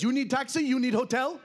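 mock Malian taxi tout; imitated West African English. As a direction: offer it eagerly in simple, accented West African English. Retold local man's halting English offer.

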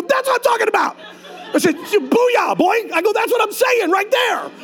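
very high, shouted celebration; jubilant whoop. Retold or imitated. Pastor retelling his triumph at the dealership, shouting high.

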